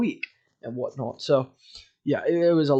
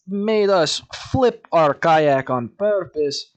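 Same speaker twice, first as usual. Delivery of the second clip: slight Russian accent; 3 semitones higher, 4 dB louder, slower than usual. Shown as a demonstration. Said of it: "I'm going slightly Russian".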